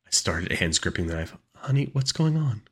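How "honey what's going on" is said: high-pitched motherly call; high, questioning mother; mother's voice. A narrator's reading. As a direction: call through the door in a raised-pitch voice. Came a voice through the door.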